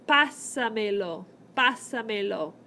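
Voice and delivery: Pásamelo punched on the opening PA; Pásamelo with the accent four vowels back; stress on Pásamelo's first syllable. Shown as a demonstration. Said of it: "That's where your accent should go".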